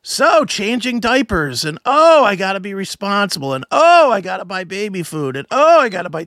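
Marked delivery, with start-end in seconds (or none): 0.0-1.6 slow, higher mock dad-comic bit; mind-droning comic. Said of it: "couldn't have been more mind-droning". 1.9-3.5 mock-lamenting dad with a swooping "oh"; mind-droning comic. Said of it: "couldn't have been more mind-droning". 3.7-5.4 mock-lamenting dad with a swooping "oh"; mind-droning comic. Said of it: "couldn't have been more mind-droning". 5.5-6.2 mock-lamenting dad with a swooping "oh"; mind-droning comic. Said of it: "couldn't have been more mind-droning".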